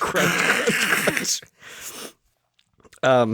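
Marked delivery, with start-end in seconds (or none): 0.0-1.4 high, spoken crunch effect; mock crunching noise. Co-host imitating a phone in a vice, crunching noises. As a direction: crunch out each sound.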